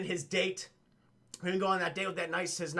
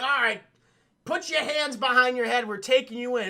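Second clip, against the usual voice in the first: raised, louder arrest order; mock police command; 4 semitones higher, 5 dB louder than usual. Agent taking the alien in, mock commanding. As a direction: imitate an agent ordering a surrender.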